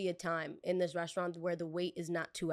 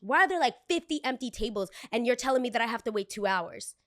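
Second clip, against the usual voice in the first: mock indignant outburst; 5 semitones higher, 5 dB louder than usual. Angry guest quoted.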